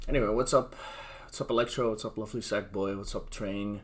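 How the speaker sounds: slightly stuffy nose; after nasal spray. Real, not acted. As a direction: talk through a freshly sprayed nose. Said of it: "this new, like, nasal spray".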